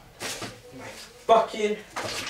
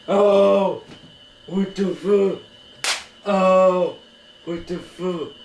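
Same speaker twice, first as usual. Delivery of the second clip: startled shout; 4 semitones higher, 6 dB louder, much slower than usual. Acted. Startled during hostage scene.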